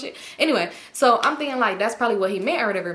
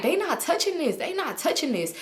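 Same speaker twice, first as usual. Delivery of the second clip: softer, slightly raised indignant imitation; mock offended; 5 semitones higher, 4 dB quieter than usual. Man refusing to share his drug, mildly offended imitation. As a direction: repeat his refusal with understated affront. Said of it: "He getting so offended".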